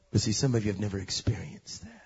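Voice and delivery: low hushed whisper; preacher whispering to the congregation, hushed; whispered aside. Real, not acted. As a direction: drop to a confiding whisper. Preacher turns intimate.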